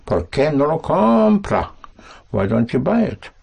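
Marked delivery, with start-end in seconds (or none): 0.1-1.7 teacher model. Shown as a demonstration.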